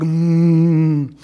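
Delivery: loud, long effortful hum; big hug squeeze noise. A narrator's reading. Child hugs father.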